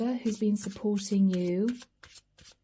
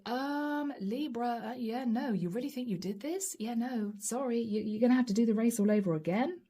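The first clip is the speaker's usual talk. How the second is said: mock-dismissive, hushed and fast at the end; dismissive doubter; 4 dB quieter than usual. A doubter belittling Libra's win, hushed and dismissive. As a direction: brush off their win like a snide critic. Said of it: "what you're fearing, is that somebody's gonna say".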